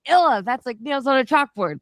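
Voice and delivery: high-pitched imagined complainer; mock-revolted whine about an awful noise; mock disgust. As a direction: put on a squeamish, high objection. Voicing imagined accent hater.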